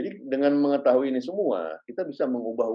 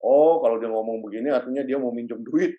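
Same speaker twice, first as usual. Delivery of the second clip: knowing assumption. Retold or imitated. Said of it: "nggak bisa digeneralisasi".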